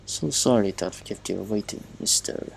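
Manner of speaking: lightly put-on Russian accent; courteous, with a hint of Russian. Machinist apologizes to the waiting neighbor, light Russian accent. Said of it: "There's a hint of Russian accent".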